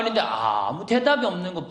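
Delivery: ordinary talk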